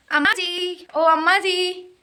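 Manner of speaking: high call across the house to mother. Real, not acted. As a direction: sing out for mother from afar. Calling out to her mother. (दूर से अम्मा को पुकारना)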